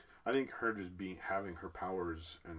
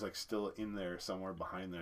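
ordinary talk, nothing marked

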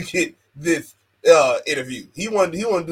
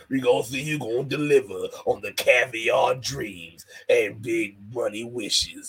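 slow, low hammed-up hype voice; mock Booker T; 4 semitones lower, slower than usual. Co-host mocking Booker T's promo, slow and low. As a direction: drag it out like a corny promo. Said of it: "Shout outs to Booker T".

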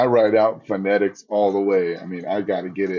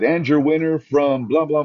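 high, ringing ring announcement; announcer voice; 6 semitones higher than usual. Retold or imitated. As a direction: call it like the winner's announced. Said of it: "So I said".

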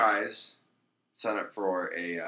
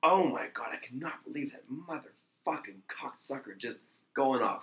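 mildly acted outrage, pitched up; mock fury; 4 semitones higher, 3 dB quieter than usual. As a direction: play the furious lawyer, without shouting. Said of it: "He is just furious".

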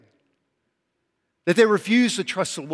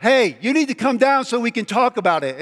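mock mom call; 5 semitones higher than usual. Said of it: "mom yells up".

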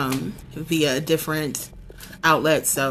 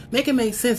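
repeated higher, pleading for logic; exasperated second ask, pitched up; 5 semitones higher, faster than usual. Retold or imitated. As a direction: push the repeat up in disbelief. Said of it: "I'm a person that's like".

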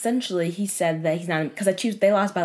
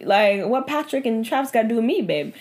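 pitched up high in disbelief, louder; incredulous outburst; 7 semitones higher, 4 dB louder than usual. Real, not acted. Friend venting to cohost about boyfriend's football excuse, incredulous. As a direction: sputter at how absurd it is. Outraged retelling of Chiefs excuse.

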